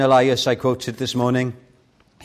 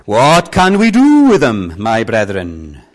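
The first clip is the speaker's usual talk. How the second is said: preacher pleading with the brethren; 9 dB louder, slower than usual. Retold or imitated. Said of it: "he goes on to put it like this".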